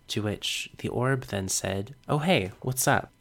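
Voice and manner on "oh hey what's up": casual. Retold or imitated. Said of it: "Really casually like that".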